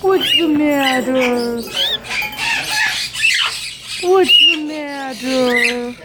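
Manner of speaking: slow low concerned coo; slow tender. Real, not acted. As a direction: ask gently and slowly. Cooing to pet bird.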